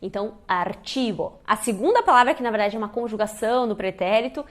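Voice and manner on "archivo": "archivo" with CH as tch; a tch in the middle of "archivo"; Spanish CH pronunciation. Shown as a demonstration. Teacher sums up the rule, "archivo" with tch. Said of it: "tem esse som de ch".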